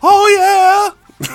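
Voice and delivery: very high, loud drawn-out whoop; mock preacher holler. Co-host joins the preacher bit, mock church hollering. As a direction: answer like a fired-up congregation, hammed up.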